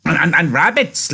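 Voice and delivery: high, loud, stammering excitement; eager. A narrator's reading. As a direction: burst in eagerly, tripping over the first word. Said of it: "Lenny said eagerly".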